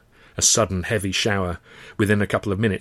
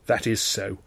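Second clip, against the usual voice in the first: ice cold. Acted. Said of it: "ice cold".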